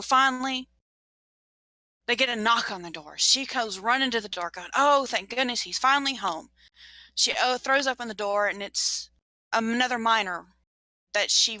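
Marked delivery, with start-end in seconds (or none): 4.8-6.5 relieved mother. Acted. Relieved mother runs to door.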